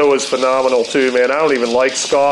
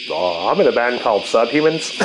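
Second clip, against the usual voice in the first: punk singer impression; 3 semitones lower than usual. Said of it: "He was like".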